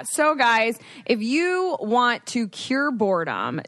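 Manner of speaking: upbeat sponsor read. Acted. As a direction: sell it like a podcast ad. Reads the sponsor ad.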